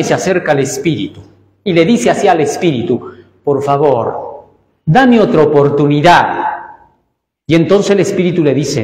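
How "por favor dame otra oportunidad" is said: pleading flesh. Acted. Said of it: "Y llora".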